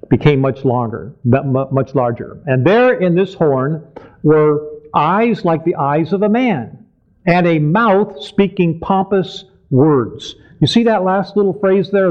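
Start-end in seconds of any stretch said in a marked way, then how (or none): 2.4-10.3 measured, slow scripture reading. Real, not acted. Preacher finishes reading the important verse, slowly. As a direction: space out the phrases as you read. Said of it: "we want to read it slowly".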